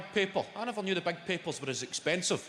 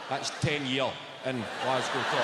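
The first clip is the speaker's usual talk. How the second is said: "ten year" with ten punched; stress on TEN; 3 semitones lower than usual. Shown as a demonstration. Comic teaching a tourist local speech, stressing ten. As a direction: correct the tourist, leaning on ten. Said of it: "None of that decade shite".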